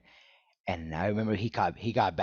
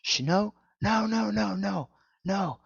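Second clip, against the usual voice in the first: high, louder imitation of angry hushing; retold angry protest, pitched way up; mad shushing; 11 semitones higher, 3 dB louder, slower than usual. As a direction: shut down the celebration, rapid-fire. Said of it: "He was so mad".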